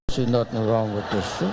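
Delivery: low, mumbled denial; lightly voiced stubborn husband; defensive husband. Husband defending his old suit to wife, defensive. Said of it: "Every husband has the same answer".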